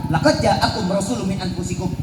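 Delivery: short Quran recitation, cut off; a brief Quranic recitation; recited verse. Retold or imitated. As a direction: recite the verse then stop abruptly. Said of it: "Tok, cuma habis itu".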